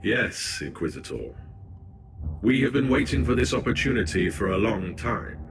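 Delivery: lightly voiced ancient machine spirit using a borrowed body; a hint of a collective voice, measured and distant; possessed by machine spirit. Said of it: "my voice box was utilized by the machine spirit".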